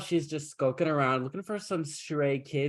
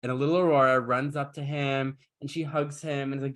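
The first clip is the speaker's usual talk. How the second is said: normal talking voice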